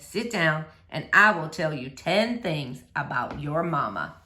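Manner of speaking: a hint of a tender preacher; lightly voiced gentle preacher.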